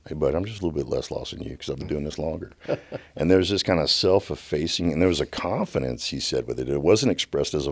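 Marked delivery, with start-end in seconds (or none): 0.1-2.5 casual. Retold or imitated. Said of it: "the casualness and ease with which he said".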